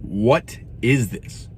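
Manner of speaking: stare at the can and ask it slowly; slow disbelief. Real, not acted. Reviewer asking the tea in slow disbelief.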